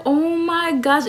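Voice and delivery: high, slow, swooning gasp of words; happy awe. Acted. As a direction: stretch it out, melting with delight. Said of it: "I was so happy".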